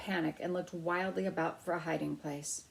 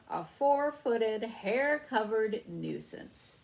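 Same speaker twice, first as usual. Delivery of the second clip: slow, drawn-out scold; 3 semitones higher, much slower than usual. A narrator's reading. Sleepy owner scolding his dog, slow drawn words. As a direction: drag each word out to scold.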